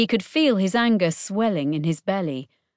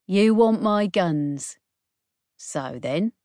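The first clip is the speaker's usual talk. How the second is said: slow, cool and unbothered; calm; slower than usual. Acted. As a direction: stay level and unhurried. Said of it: "Her voice was surprisingly calm".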